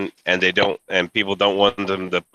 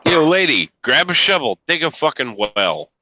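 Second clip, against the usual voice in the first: mocking shout; 5 semitones higher than usual. Real, not acted. Mocking yell at a streamer.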